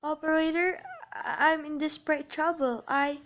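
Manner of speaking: soft, hesitant plea to the operator; barely audible. Acted. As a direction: keep desperate trouble hushed. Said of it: "I cannot hear you".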